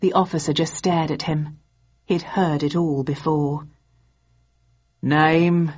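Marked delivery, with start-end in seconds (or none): 5.0-5.7 tired, flat sergeant voice; weary desk sergeant. A narrator's reading. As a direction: ask it like a bored desk sergeant. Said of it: "asked the desk sergeant wearily".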